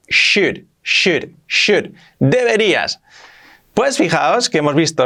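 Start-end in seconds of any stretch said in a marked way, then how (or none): 0.1-1.9 "should" repeated higher, as "shud"; silent L in should. Shown as a demonstration. English teacher showing learners the silent L, "should" repeated as "shud". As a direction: drill "should" with SH and no L sound. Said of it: "la L no se pronuncia".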